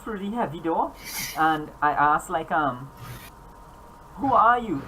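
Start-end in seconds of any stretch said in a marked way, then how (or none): 4.2-4.8 eager high question; excited greeting. Acted. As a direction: blurt it out eagerly. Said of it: "I'm excited and so on".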